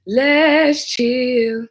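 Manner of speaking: laid-back, easy "Let's chill"; smooth and calm. Shown as a demonstration. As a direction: settle the caller down, smooth and relaxed. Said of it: "I like my voice to be like".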